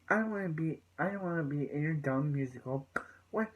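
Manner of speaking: mildly cocky, imitating a dismissive teen; cocky retort. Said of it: "He's just, like, cocky".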